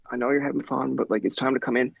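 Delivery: mild, courteous coaxing; polite. Acted. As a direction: gently ask a kid to come in. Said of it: "come down and politely be like".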